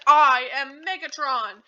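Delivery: slow, loud self-proclamation; drawn-out villain announcement, acted; mock grand declaration. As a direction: proclaim a new name grandly.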